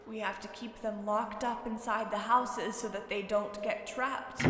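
lightly voiced soft, haunted old man; grave old man. A narrator's reading. Old man telling the girl of cursed children, grave. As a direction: tell of the curse in a hushed voice.

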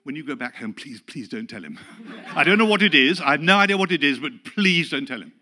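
loud, laughing panicked plea; panicked pleading. Retold or imitated. Pastor begging the visitor not to tell, panicked plea. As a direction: beg him not to tell, half laughing. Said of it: "my immediate reaction was".

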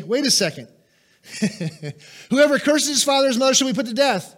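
high, loud, fast disbelief; shocked reader. Retold or imitated. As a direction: gasp at the verse in mock shock. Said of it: "we read the penalty phase and we say".

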